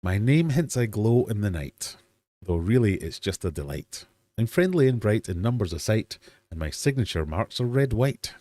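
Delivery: rhyming riddle read out with lifted line openings; punchy, lilting verse delivery; poem reading. Acted. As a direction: recite a quiz riddle in verse.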